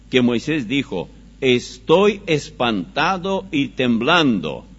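forceful pulpit reading, phrase by phrase; scripture reading. Acted. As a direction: declaim the passage with measured force.

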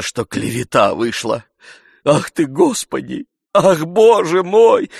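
put-on an old servant gushing blessings; old servant rejoicing. A narrator's reading. Old servant exclaiming, repenting.

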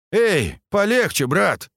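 sharp high rebuke, slowed on the first words; scolding. A narrator's reading. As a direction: tell him off, brother to brother. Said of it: "Скат словно кого-то поругал". (с укором, повысив голос)

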